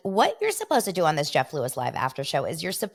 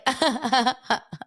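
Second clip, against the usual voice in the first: imitated laugh; 8 semitones higher than usual. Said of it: "And he's like".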